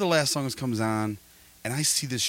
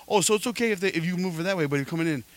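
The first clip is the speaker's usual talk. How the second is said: higher, needling mock question; sarcastic mimic; 8 semitones higher than usual. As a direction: poke holes in his logic with a mock voice. Mocking the dude's logic.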